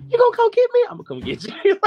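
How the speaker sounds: mock dramatic vow. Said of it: "He was like".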